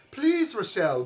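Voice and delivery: put-on high pleading young brother; begging. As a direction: beg her desperately. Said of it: "begs Philip".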